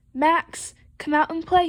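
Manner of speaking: storybook calling-out voice; hollering. Acted. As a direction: holler up to a friend's house. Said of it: "he hollered".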